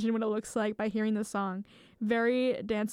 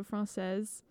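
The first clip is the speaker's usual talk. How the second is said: French pronunciation. Shown as a demonstration. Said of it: "if you were to say something's French".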